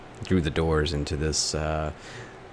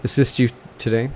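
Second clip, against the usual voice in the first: put-on much higher, frail little old lady voice; 9 semitones higher than usual. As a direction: speak like a tiny old receptionist. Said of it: "in a frail voice".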